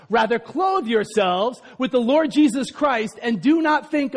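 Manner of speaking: steady read from the Bible; scripture reading. Acted. Preacher reading Romans to the congregation, steady. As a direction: read the verse plainly to them.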